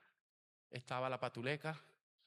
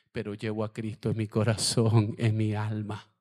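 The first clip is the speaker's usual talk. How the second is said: retold crying plea; 12 dB louder than usual. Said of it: "me tiré en el piso a llorar".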